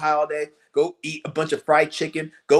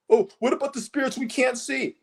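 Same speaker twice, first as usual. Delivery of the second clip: mock question; 9 semitones higher than usual. Mocking spiritual question.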